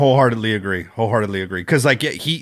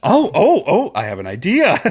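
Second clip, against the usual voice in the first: giddy brainwave, breaking into a laugh; playfully hammed-up eureka; excited Michael Myers; 3 semitones higher than usual. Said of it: "he's like this".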